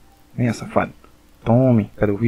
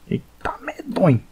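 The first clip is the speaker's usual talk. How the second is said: breathy whisper; 10 semitones higher, slower than usual. Real, not acted. Scared reaction mid fight.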